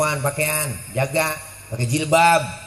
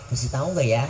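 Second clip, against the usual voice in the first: cheeky alay answer; 2 semitones lower, 4 dB quieter than usual. Retold or imitated. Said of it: "Tuh anak alay tuh".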